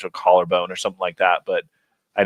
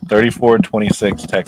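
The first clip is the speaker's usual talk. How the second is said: loud; 6 dB louder than usual. Real, not acted. Hyped prediction shouted.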